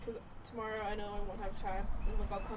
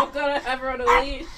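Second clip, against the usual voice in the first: laughing; 4 semitones higher, 18 dB louder, faster than usual. Real, not acted. Laughing at the dog.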